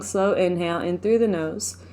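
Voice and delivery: ordinary delivery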